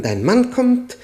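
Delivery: high, loud imitated scream; retold scream. Husband retelling his wife's panicked scream, high and loud. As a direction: cry it out as she would have, panicked. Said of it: "wird sie Elli zugeschrien haben".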